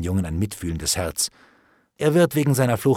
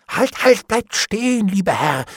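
loud, high, urgent call; alarmed plea; 10 semitones higher, 5 dB louder than usual. A narrator's reading. Bailiff calls Hendon back from the judge, alarmed. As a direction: stop him in a panic.

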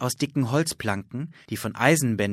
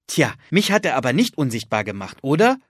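quick, gloating comeback, rising on oder; smug boy proving his sister wrong; triumphant gloating; 3 semitones higher, 6 dB louder, faster than usual. Acted. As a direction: score the point, a little louder and fast. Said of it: "trumpfte Philipp auf".

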